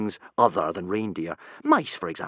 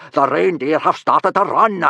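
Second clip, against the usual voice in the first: alarmed shout; 6 semitones higher, 8 dB louder than usual. Acted. Gobber alarmed, chasing.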